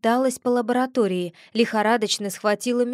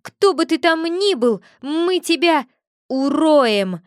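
loud, higher-pitched threat; menacing; 5 semitones higher, 6 dB louder than usual. A narrator's reading. Familiar finishes the girl's threat to the intruder, menacingly. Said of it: "грозно закончил за меня Виля".

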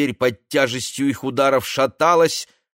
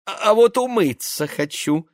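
flirtatious; 9 semitones higher than usual. Acted. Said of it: "кокетливо ответила та".

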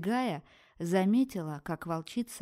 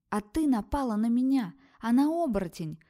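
shouting back; 5 semitones higher, 5 dB louder than usual. Acted. Heroine shouts back in fight.

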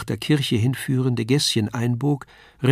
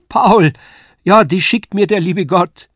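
a much higher, much louder cry of joy; jubilant cry; 7 semitones higher, 8 dB louder than usual. A narrator's reading. Lisei suddenly recognizes her childhood friend, joyful cry. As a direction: burst out with his name in sheer joy. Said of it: "wie ein Jubelruf flog das Wort".

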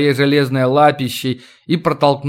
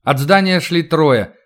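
ordinary delivery

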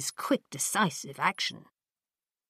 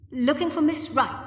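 firmly; 10 semitones higher than usual. A narrator's reading. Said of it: "the doctor replied firmly".

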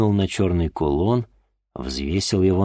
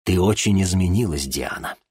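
stern. Acted. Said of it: "строго сказал её отец".

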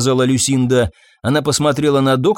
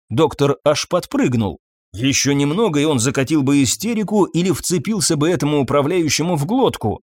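ordinary delivery, nothing marked

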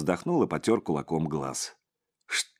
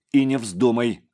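louder, each word rapped out; clipped out; 4 semitones higher, 6 dB louder than usual. A narrator's reading. Гришавин чеканит запрет Креплёному, твёрдо и громко. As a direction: rap the warning out firmly. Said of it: "отчеканил Гришавин".

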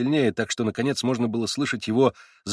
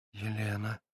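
barely audible, much softer; very quiet whisper; 11 dB quieter, slower than usual. A narrator's reading. Girl suddenly telling her name, hushed whisper. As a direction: breathe the name out secretly. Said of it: "вдруг прошептала она неожиданно и чрезвычайно тихо".

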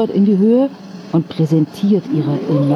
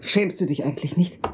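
whisper; 7 dB quieter than usual. Acted. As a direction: whisper the reproach. Whispered reproach in quarrel.

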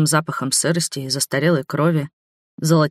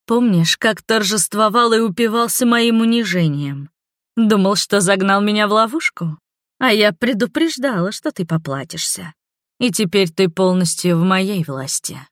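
taunting vampire woman; 4 semitones higher than usual. Acted. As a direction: toy with the captive sweetly. Voices the villainess Neva.

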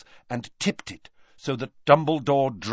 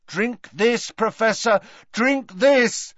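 urgent shout; 9 semitones higher, 4 dB louder, slower than usual. Acted. Harry urging over the screams.

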